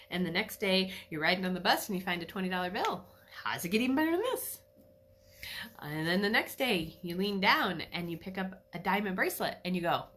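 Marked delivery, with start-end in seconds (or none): 3.4-4.6 higher, louder and quick with glee; thrilled. Acted. Acting out finding twenty dollars on the bus, thrilled. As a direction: ask it like the luck keeps growing.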